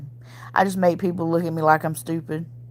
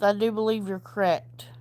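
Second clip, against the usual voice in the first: hushed, breathy aside; whispered; 5 dB quieter than usual. Shown as a demonstration. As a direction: whisper the agreement, then say it aloud. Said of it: "repeated aloud".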